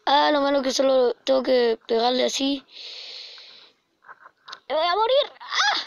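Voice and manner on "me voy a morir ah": on a roller coaster. Real, not acted. Panicking in a game.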